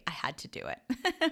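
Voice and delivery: soft unvoiced whisper. Real, not acted. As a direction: breathe it out sheepishly. Apologising for sipping on mic.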